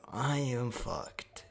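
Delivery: very slow, drawn-out dread; doomed realization. Acted. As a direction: stretch each word as doom sinks in. Character realizes his doom.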